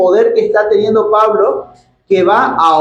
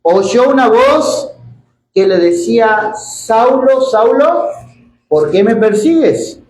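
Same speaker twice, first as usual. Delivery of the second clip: slow, raised scripture reading; 3 semitones higher than usual. Acted. Preacher reads Saul's conversion to the church, solemn scripture reading. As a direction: read out the verses slowly, drawing out phrase ends.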